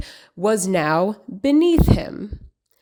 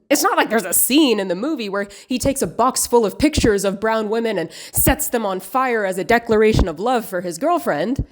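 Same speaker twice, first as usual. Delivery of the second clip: mock disbelief; 2 semitones higher than usual. Sarcastic denial of a scene shown next.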